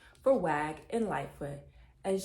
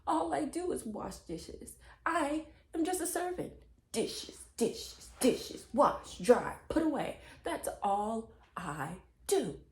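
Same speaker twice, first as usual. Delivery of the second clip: put-on a sulky child listing her chores; complaining little girl; 5 semitones higher, slower than usual. Runaway girl complains to Missus Piggly Wiggly about dishes. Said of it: "She said".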